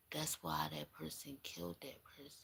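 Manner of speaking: hushed. Real, not acted. Realising the murder motive.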